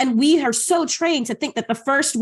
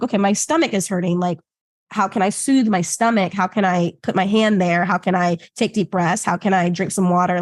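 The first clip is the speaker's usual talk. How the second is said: lower, calm, caring questions; soothing self-talk; 3 semitones lower than usual. Acted. Person soothing their own hurting stomach, calm and low. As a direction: settle yourself down gently. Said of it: "bring it back down then too".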